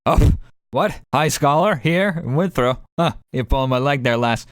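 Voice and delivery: a guard who can't believe his ears, calling her lass; gruff guard voice. Acted. Dwarvish guard reacts to name.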